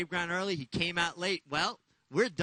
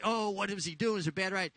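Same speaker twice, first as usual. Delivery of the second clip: higher mock griping of sore losers; lightly acted, higher-pitched complaint; mock complaining; 4 semitones higher, 3 dB louder than usual. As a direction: imitate people grumbling after a loss. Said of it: "they complain when they lose and say".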